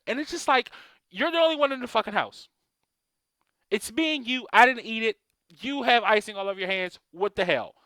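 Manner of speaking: bursting with disbelief at the fib; exasperated parent. Retold or imitated.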